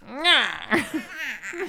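high creaturely squawk; silly high-pitched lizard cry; lizard noise. Pretend. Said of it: "Lizard noises".

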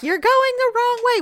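high, loud bossy scold; mock scolding. Friend quoting the Mister Mom drop-off scene. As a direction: scold like a school traffic warden.

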